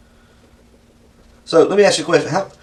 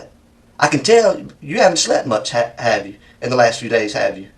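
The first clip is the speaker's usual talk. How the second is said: gentle sympathetic. Real, not acted. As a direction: coax him gently. Interrogator turns gentle and sympathetic.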